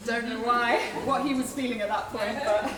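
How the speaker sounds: chuckling through the words; amused, laughing as you say it; light laugh running under the line. Real, not acted. Laughing at the odd song title.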